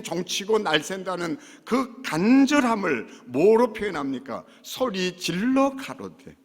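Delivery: loud, driving sermon; fiery preaching. Acted. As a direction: preach it hard to the congregation. Preaching at full force.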